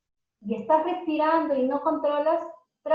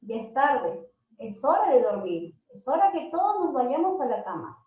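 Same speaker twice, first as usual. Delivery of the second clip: calm bedtime reminder. Shown as a demonstration. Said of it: "Es muy diferente decir".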